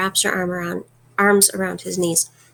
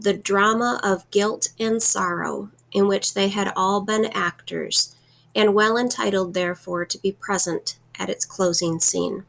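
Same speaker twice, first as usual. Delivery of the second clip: reading aloud. Shown as a demonstration.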